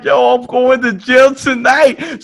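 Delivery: high, loud and slow mock dread; panicking. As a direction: wail it like doom is coming. Retold panic in car.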